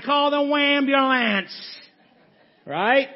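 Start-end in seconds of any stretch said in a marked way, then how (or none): 0.1-1.5 mocking.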